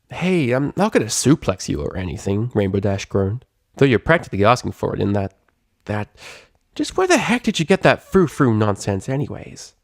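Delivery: lightly voiced tomboy grumble; half-annoyed, half-teasing; Rainbow Dash, exasperated.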